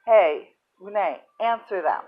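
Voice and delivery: mild mock shout, loud on the first word; retold shout. Lady at the door orders the patient to answer, retold shout. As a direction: call out sharply, then ease off. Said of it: "because she shouted".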